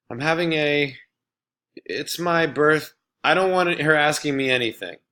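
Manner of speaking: snapped. Acted. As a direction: cut her off angrily. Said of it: "Jeff snapped".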